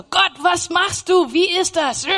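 retold angry protest to God. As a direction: demand answers from God, upset. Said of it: "ich war so böse".

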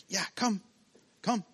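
high, soft encouraging parent; coaxing a toddler. Pretend. Parent softly encourages a child's first steps, coaxing. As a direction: gently coax the little one forward. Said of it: "wir sagen".

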